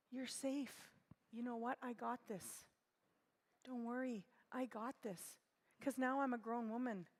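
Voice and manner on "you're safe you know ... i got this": put-on soothing a child. Shown as a demonstration. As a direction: coo gently like settling a scared toddler. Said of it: "Just how I would talk to my little noses".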